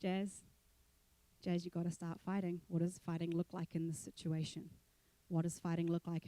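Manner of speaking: a quiet inner voice pressing her to fight. Retold or imitated. Her inner voice urging her on, quiet and low. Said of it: "the little voice inside of me went".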